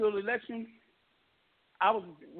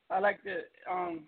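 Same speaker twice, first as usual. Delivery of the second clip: eating while talking; mouth full. Real, not acted. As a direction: talk through a mouthful of ribs. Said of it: "I'm sorry, I'm eating some ribs".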